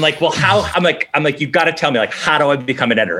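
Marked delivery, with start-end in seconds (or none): 0.2-0.6 higher-pitched, insistent acted demand; passionately aggressive. Eager applicant pressing the hiring boss, passionately aggressive. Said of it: "I was super aggressive". 1.4-3.2 mildly pushy, eager re-enacted demand; passionately aggressive. Eager applicant asking how to become an editor, passionately aggressive. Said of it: "I was super aggressive".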